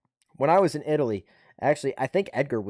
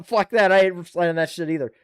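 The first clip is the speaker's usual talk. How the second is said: defiant refusal; 4 semitones higher, 4 dB louder than usual. Retold or imitated. Refusing the second statement.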